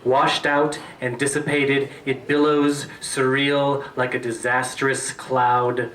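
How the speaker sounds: measured, deliberate recital; poetry reading. Acted. Poet reading an early poem to an audience, deliberate recital. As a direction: linger on each phrase with falling cadences. Reads own poem aloud.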